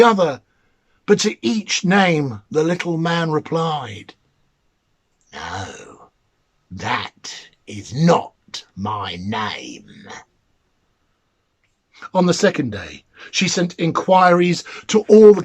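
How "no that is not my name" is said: mannikin refusing. Acted. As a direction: drag it out low and mocking, a little creature gloating. The mannikin rejects the guesses.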